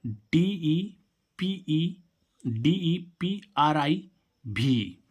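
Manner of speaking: letters spelled out very slowly; slow dictation of letters; slow spelling. Shown as a demonstration. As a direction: spell out डीईपीआरआई letter by letter, drawn out. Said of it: "अगला meaning है".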